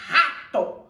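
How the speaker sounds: "rato" with a firm strong R at the start; strong R sound. Shown as a demonstration. Teacher shows the strong R in "rato", firm and clear. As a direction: give "rato" a strong opening R. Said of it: "que é o R forte".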